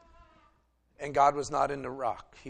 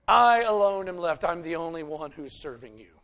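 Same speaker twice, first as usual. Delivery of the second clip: loud lament; 5 dB louder than usual. Retold or imitated. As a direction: wail that you alone remain. Elijah complains he is alone.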